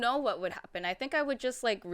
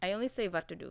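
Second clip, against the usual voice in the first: mock Indian accent with w sounds turned to v. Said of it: "no, I can't do it just to do it".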